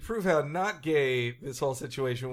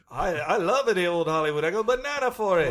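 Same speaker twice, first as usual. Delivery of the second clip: put-on Quebec accent; 2 semitones higher than usual. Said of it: "That's not a good Pat Patterson".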